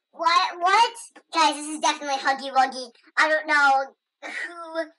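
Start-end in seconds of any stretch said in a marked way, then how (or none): 0.1-0.9 surprised. Pretend. Reads, then shocked.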